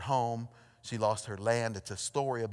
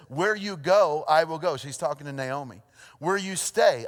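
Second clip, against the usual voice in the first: Ruth's vow; 4 dB louder than usual. Acted. Preacher reads Ruth's vow.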